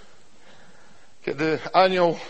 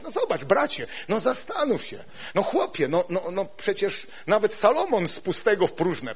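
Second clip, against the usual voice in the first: higher, mildly coaxing friend; persuading friend; 6 semitones higher than usual. Retold or imitated. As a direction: coax a friend to be sensible. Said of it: "nie potrafimy siebie nawzajem przekonywać". (przyjaciel lekko wyżej perswaduje)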